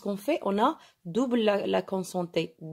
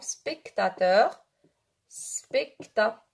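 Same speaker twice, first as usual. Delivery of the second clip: syllable-by-syllable dictation; much slower than usual. Shown as a demonstration. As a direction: dictate it piece by piece with gaps. Teacher spells out word while writing. (dictée lente, syllabe par syllabe)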